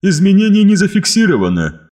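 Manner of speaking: high, loud, emotionless report; eldritch horror. Acted. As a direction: report flatly like an inhuman machine. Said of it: "заверил меня голос".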